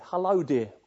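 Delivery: put-on an elderly Geordie nan's greeting, lightly done; Geordie accent. Nan to her startled grandchild at night, light Geordie accent. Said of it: "in a Geordie accent".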